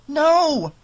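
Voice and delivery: loud, high-pitched outburst; emphatic refusal. A narrator's reading. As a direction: blurt it out far too forcefully. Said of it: "with more emphasis than she had intended".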